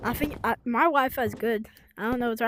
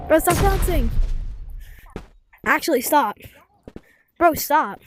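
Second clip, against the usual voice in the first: annoyed; 3 semitones higher, 3 dB louder than usual. Real, not acted. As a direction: tell your friend to knock it off. Friend bouncing him in game.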